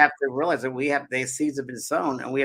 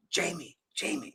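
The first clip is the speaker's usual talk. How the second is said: soft, slow call of Jamie; faint call from beyond; faint mother's voice; 2 semitones higher, 8 dB quieter, slower than usual. Retold or imitated. Mother calls her son faintly, soft and slow. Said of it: "she came through faintly".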